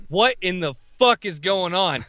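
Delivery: slow, drawn-out retold bewilderment; slow disbelief. Veteran looking at the kids, slow stunned disbelief. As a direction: stretch it out, word by word. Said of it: "he's looking at these kids like".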